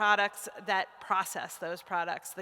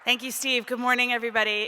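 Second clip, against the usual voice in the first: shaking voice; 3 semitones higher, 6 dB louder, faster than usual. Real, not acted. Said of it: "If my voice is shaking, it's 'cause I'm freezing".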